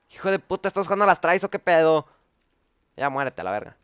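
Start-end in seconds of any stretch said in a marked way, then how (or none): 0.1-2.1 loud, high furious outburst; angry yell. Real, not acted. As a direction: curse at the zombie. Angry at zombie. (grito furioso)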